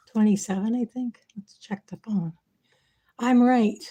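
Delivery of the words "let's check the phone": whispering. Real, not acted. Aside while checking phone.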